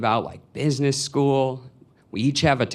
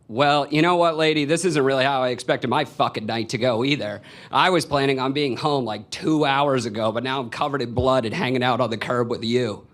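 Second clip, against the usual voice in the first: exasperated retort; faster than usual. Retold or imitated. Bloodied cyclist answering the woman on the curb, exasperated. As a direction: reenact giving a stranger an irritated earful.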